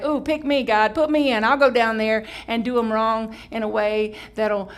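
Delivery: acted enthusiastic volunteering; eager volunteer. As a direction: beg brightly to be picked. Acts an eager volunteer to God.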